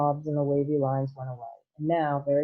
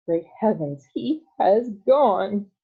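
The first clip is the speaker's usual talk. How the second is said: loud, higher and dragged out slowly; stunned disbelief shouted aloud; shocked shout; 5 semitones higher, 6 dB louder, much slower than usual. Acted. Father realising his son vanished, slow shocked shout. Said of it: "shouted Mister T V".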